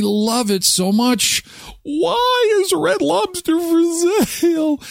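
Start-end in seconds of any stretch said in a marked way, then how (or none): 1.8-4.8 dramatic question. Shown as a demonstration.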